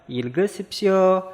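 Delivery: ilge sipsio said slowly and clearly, syllable by syllable; slow Korean read. Shown as a demonstration. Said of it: "perintahnya damel".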